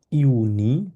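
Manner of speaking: ইউনি as "yoo-nee", rising at the end. Shown as a demonstration. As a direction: open ইউনি with a Y glide. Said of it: "এটা হচ্ছে ইয়ট". (ইউনি, জ নয়, ইয় দিয়ে শুরু)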